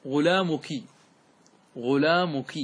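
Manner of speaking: teacher modelling "ghulāmuki" for غلامك; word ending in kasra. Shown as a demonstration. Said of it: "مختوم بإيش؟".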